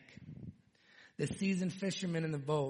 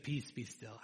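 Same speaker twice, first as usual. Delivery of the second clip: softly, lower, just saying it; calm quiet command; 4 semitones lower, 5 dB quieter than usual. Acted. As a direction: say it gently, no yelling. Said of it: "I think he just said".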